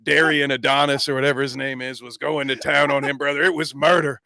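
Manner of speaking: gravel-free wrestling promo voice, lightly done; lightly voiced eighties wrestler promo; Hulk Hogan voice. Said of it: "use my Hulk Hogan voice".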